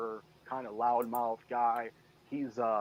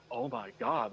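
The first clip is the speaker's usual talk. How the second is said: higher, mock-scandalized gasp; mock shock; 11 semitones higher, slower than usual. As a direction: play the shocked prude, much higher. Mocking shocked listeners.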